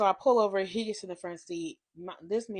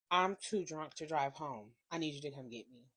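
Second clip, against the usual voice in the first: imitating drunk boyfriend; 5 semitones lower, 7 dB quieter than usual. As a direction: play the drunk boyfriend begging for a ride.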